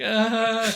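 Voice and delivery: loud, high mock laugh; imitated laugh. Crook laughing along with Dracula, loud mock laugh. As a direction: act out a crook's forced "ah" laugh. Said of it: "laughing together".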